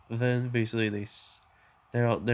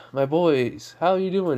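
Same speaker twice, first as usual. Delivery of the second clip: loud, higher-pitched fatherly hello; hearty greeting; 5 semitones higher, 6 dB louder than usual. Acted. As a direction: greet your boys heartily, voice raised. Father greets his boys in story.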